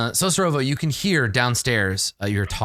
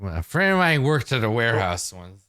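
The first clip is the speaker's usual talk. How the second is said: musing onlooker; 7 semitones lower than usual. Acted. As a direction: muse aloud in a low voice, with pauses. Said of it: "He's like".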